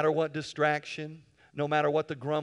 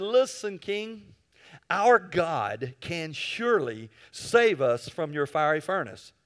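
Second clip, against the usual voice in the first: defiant reply; 4 dB louder, slower than usual. Acted. Three youths defy king.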